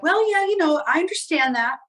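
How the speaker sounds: imitating a would-be cool explainer; trying to be cool. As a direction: act casually sure of yourself, starting high. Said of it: "I was trying to be cool".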